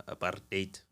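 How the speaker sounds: "apartheid" drawn out slowly; careful, slow attempt at saying "apartheid"; another pronunciation of apartheid. Shown as a demonstration. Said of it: "however you say it".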